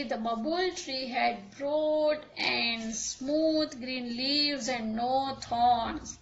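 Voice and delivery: very slow, deliberate classroom reading; slow story read-aloud. A narrator's reading. Teacher reading a story to pupils before translating, slow read-aloud. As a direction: read it out word by word, unhurried.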